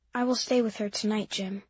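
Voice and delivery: soft, tearful and quiet. A narrator's reading. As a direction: say it quietly through tears. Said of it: "Mimi said in a quiet voice".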